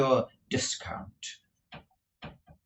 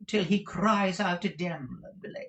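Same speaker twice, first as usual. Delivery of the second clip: whispered end of a threat; mock menace in a whisper; 10 semitones higher than usual. A narrator's reading. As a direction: hiss the end of the vow. Dandy's threat ending.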